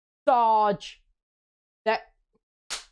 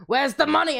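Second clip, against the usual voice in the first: mock scream; 6 semitones higher, 3 dB louder than usual. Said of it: "J Money was still screaming down the line".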